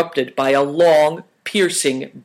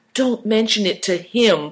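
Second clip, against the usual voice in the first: higher-pitched plea; pleading; 6 semitones higher than usual. A narrator's reading. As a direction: plead in a raised voice. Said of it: "pleaded Chin".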